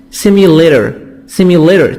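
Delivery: "simulator" with the T as a soft D. Shown as a demonstration. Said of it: "T soft D".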